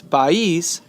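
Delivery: país in two syllables, pa-ÍS; stress on the i. Shown as a demonstration. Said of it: "dividing it into two, two syllables".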